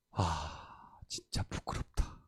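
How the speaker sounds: slow, low whispered thought; ashamed whisper. Retold or imitated. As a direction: whisper it to yourself in shame. Inner thought of shame.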